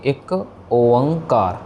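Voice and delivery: ओंकार said slowly, the ओ drawn out long; correct pronunciation. Shown as a demonstration. Teacher models ओंकार with a long drawn ओ for students. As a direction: stretch the ओ in ओंकार. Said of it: "इसकी सही pronunciation हो गई".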